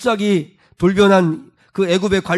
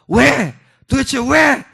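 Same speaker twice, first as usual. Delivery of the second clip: high-pitched, anguished protest to God; acted outburst of frustrated pleading; pouring out complaint; 8 semitones higher, 4 dB louder, slower than usual. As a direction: demand an answer, each 'why' pitched up. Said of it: "하면서 막 쏟아놓는 거죠".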